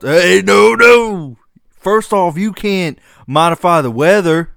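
loud, high-pitched telling-off; shouted objection. Acted. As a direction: holler to stop them, then lay down the rules. Plays official objecting to launch.

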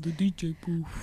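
whispered, knowing aside; teasing whisper. Real, not acted. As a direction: breathe it like a secret. Friend whispers the club detail.

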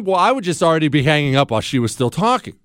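usual speaking voice

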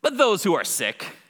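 loud, high, slow proclamation; shouted out. Acted. Jesus shouting out the window to the Pharisees, calling out. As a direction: project it slowly to people outside. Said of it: "shouts it out the window to the Pharisees".

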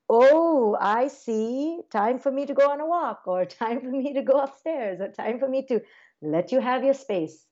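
playful parent bowing out; light sing-song parent. Retold or imitated. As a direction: lightly announce you're leaving the room. Parent gently stepping away from teen.

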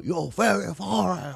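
mock Asian accent. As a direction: imitate a stranger's exaggerated fake Asian accent. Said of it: "some white dude will go".

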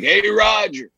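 mistaken Nicholson. Acted. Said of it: "I was gonna do it as Nicholson".

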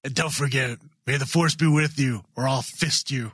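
mock-macho sign-off; put-on manly man voice; deep voice. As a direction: play the hammed-up tough guy. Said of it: "let's just get a really deep voice".

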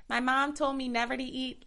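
a hint of a Minnesota accent; lightly imitating a Minnesota girl. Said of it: "that's a really bad Minnesota accent".

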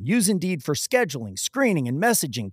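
host reading the sponsor message. Acted. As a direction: read the ad like a polished spot. Reads sponsor ad.

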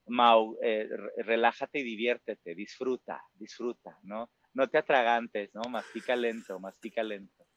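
put-on an older man calmly advising his past self; gentle advice.

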